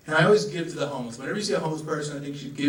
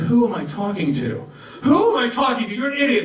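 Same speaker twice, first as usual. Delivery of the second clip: self-scolding; 6 semitones higher, 4 dB louder than usual. Retold or imitated. Scolding himself, rising.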